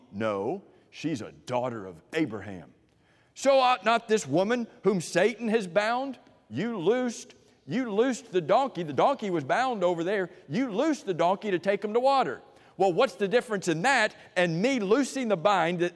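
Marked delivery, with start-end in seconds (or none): 3.4-12.4 forceful rebuke. Acted. Rebuke continues, preached high.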